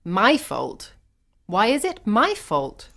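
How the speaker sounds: high, rising indignation; indignant protest. A narrator's reading. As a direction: throw the blame back. Blamed woman protests in quarrel.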